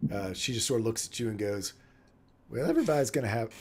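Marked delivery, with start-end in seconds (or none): 2.5-3.5 fast, higher, unplanned Southern-ish twang; an accent slipping out by accident; slipped into an accent. Acted. Game master voicing the madam, accidentally in a Southern accent. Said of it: "that's the wrong accent".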